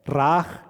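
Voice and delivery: "Raaj" said again with a long aa and a throaty j, rising; Hebrew word repeated. Shown as a demonstration. Preacher repeating the Hebrew term for the congregation, rising. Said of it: "que significa ver".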